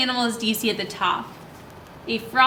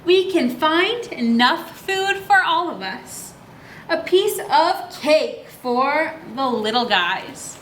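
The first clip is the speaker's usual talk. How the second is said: put-on reading to children; slower than usual. A narrator's reading. Reads book lines to kids.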